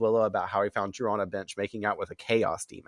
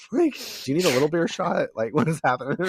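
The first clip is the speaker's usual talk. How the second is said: laughing through a quote; 7 semitones higher, 4 dB louder than usual. Acted. Acted quote amid laughter.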